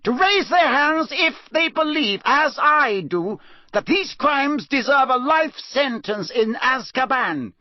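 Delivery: high hard judge's shout; stern judge shouting; shouted order. Acted. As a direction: call the vote with cold force. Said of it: "shouted Mister Crouch".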